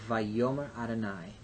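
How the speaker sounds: Vayomer Adonai, yo stressed in vayomer; clear demo pronunciation. Shown as a demonstration. Teacher modelling the full Hebrew phrase for students. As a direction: carefully sound out Vayomer Adonai. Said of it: "We would say".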